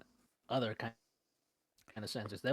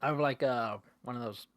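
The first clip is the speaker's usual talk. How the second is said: talking while chewing gum; words round a wad of gum. Real, not acted. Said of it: "I'm chewing gum".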